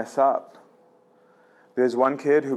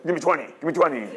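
quick, higher barking drill-sergeant voice; drill sergeant God; 4 semitones higher, faster than usual. Retold or imitated. Preacher voices God as a drill sergeant, fast and higher. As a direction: play God as a gym coach demanding push-ups. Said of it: "And God's like".

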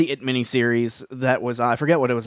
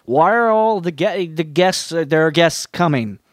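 high, puzzled listener asking where the guests went; confused listener; 6 semitones higher, 3 dB louder than usual. Retold or imitated. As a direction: voice a baffled fan, pitched up. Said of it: "is like".

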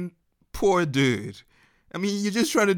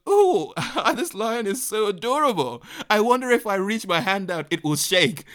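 mock adoring; 3 semitones higher than usual. Mocking a naive reaction to lion.

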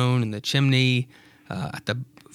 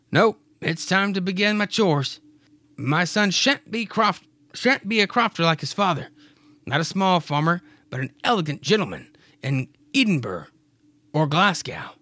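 lightly voiced proud crofter, higher; Clyde's voice; 5 semitones higher than usual. Clyde telling Mary of his son's future, lightly voiced. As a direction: dream aloud of your son's future.

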